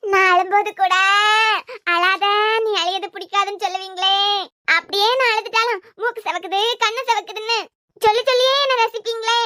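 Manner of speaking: half-convincing widow's wail; mock tearful lament. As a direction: reminisce in a put-on sob-song. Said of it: "எதுக்கு அழுதுட்டு இருக்கீங்க". (போலி அழுகையுடன் புலம்பல்)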